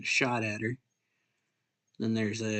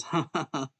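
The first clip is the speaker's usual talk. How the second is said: read-out laugh; 3 semitones higher than usual. Acted. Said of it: "then he just says".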